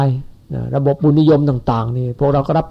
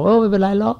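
careless reassurance; 7 semitones higher than usual. Retold or imitated. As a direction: brush off the danger lazily. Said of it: "ไปบอก".

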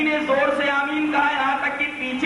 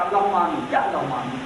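mock supplication; 10 semitones lower than usual. Shown as a demonstration. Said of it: "اگر یہ دعا ہے تو یوں بولا جا سکتا".

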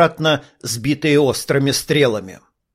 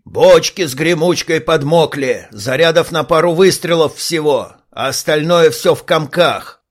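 panicked, raised report; terrified yell. Acted. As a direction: shout the bad news in fear. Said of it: "заорал с ужасом". (кричит в ужасе)

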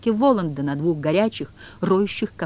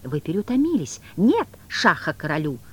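falsely anxious. Acted. The cat lying to Woland about the king, falsely anxious. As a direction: fake alarmed cat voice. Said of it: "тревожно фальшивым голосом".

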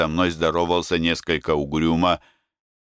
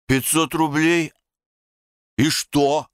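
higher-pitched puzzled question; awkward surprise; 7 semitones higher than usual. A narrator's reading. Semyon asks the director about the errand, awkward surprise. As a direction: ask it awkwardly, taken aback. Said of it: "неловко сказал".

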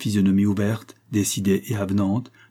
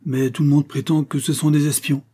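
higher-pitched, hesitant villager; unsure, halting testimony; stammering hesitation; 7 semitones higher, 3 dB louder than usual. A narrator's reading. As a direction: answer reluctantly, feeling for words.

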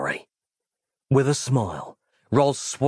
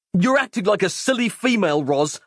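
snarling; 9 semitones higher than usual. Acted. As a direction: snarl it with contempt. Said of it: "Mike snarled at her".

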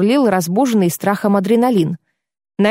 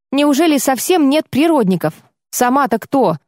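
sharp, raised, blurted reproach; angry outburst; 4 semitones higher than usual. Acted. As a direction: snap it out in anger. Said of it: "Зло выпалил".

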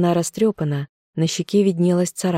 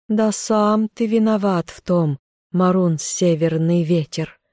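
snorting cat; 2 semitones higher than usual. Acted. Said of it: "Котофей фыркнул".

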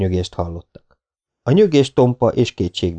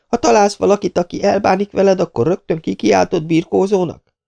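sarcastic scorn; 12 semitones higher than usual. Acted. Woman mocking his excuse.

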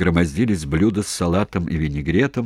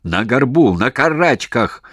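a touch of hysteria, raised yell; near-hysterical yelling; 3 semitones higher, 4 dB louder than usual. Acted. Commander yelling back about carrying wounded. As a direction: bark the orders half-panicked. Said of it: "Почти в истерике орал".

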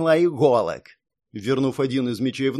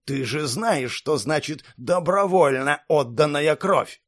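guard voice; 3 semitones higher, slower than usual. Acted. Kasseris replies.

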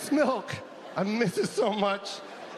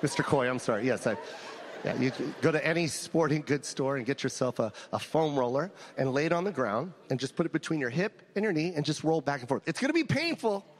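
apologetic doctor; 7 semitones lower than usual. Retold or imitated. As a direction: backpedal gently, voice dropped. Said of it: "Oh my God".

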